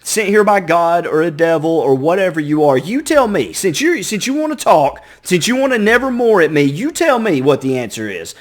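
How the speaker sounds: frustrated Poe. Retold or imitated. Narrator losing patience with the raven, exasperated. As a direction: push the bird for an answer. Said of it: "Poe's kinda got frustrated".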